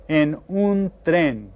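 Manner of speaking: "En un tren" drawn out slowly, rolled r; slow Spanish model. Shown as a demonstration. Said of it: "sounds kind of like the way we pronounce".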